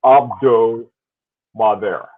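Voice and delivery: "Abdo ... Maver" in two careful parts, silent H; correct French pronunciation. Shown as a demonstration. Repeating the watch name for the co-host, careful correct pronunciation. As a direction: break "Abdo Maver" between the words, no H. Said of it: "That's how you pronounce it".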